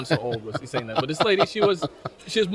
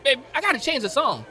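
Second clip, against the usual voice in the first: much higher raspy soul-star voice; a singer's voice; 12 semitones higher than usual. Acted. Introducing Aisha Tyler to the crowd, as a singer. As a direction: hype it like a soul legend. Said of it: that the singer has a song.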